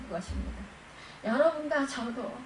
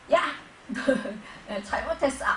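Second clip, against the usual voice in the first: sharp call, then halting rebuke; mock scolding; 4 dB louder than usual. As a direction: act out a brief telling-off. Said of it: "막 이러면서 야단치지 않으셨어요". (야단치는 흉내)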